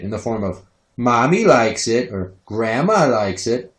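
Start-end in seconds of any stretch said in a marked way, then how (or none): 1.0-2.1 slow, lightly voiced little kid; a hint of creepy child; toddler catchphrase. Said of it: "this question comes with a response". 2.4-3.7 slow, rising, lightly voiced kid; a hint of creepy child; toddler catchphrase. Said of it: "this question comes with a response".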